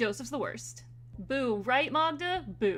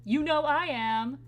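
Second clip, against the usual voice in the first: enthusiastic; 3 semitones higher, 3 dB louder than usual. Shown as a demonstration. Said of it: "Should we go for enthusiasm?".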